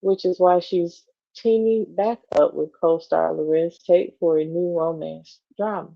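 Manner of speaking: even, measured magazine read; article read-aloud. Acted. Co-host reading a celebrity profile to the other, measured read-aloud.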